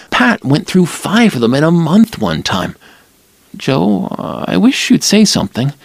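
a hint of a nervous young woman; Lila's voice.

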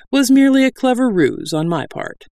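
high-pitched, self-satisfied grandeur; lofty. A narrator's reading. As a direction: boast with superior airs. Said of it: "he said loftily from his unseen perch".

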